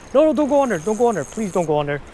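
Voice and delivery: high, urgent no no begging the fish; frantic pleading. Real, not acted. Angler begging a hooked bass not to go under, frantic.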